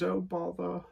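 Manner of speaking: a quick high-pitched mock of the cartoon bear; Winnie the Pooh voice. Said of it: "like Pooh Bear does".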